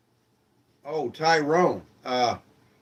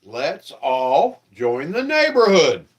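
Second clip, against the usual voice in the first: SpongeBob voice; 4 dB louder than usual. Acted. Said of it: "SpongeBob says".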